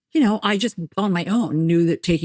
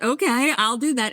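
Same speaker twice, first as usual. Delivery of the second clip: high, drawn-up okay of agreeing; mock compliance; 6 semitones higher than usual. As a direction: agree a little too readily, pitched up. Retells her reply to mother.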